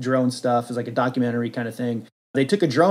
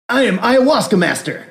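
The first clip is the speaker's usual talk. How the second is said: higher, grandly intoned mystic; mystic master; 7 semitones higher, 5 dB louder than usual. Pretend. New comic hero introduces himself, grand guru voice. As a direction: announce yourself as a self-serious guru. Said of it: "we just came up with a new guy".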